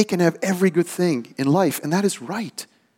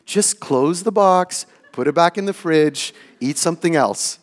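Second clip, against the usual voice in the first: lightly voiced Lord, laughing through it; 3 semitones higher, 4 dB louder than usual. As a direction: gently scold yourself as God would. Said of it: "the voice of the Lord came to me and said".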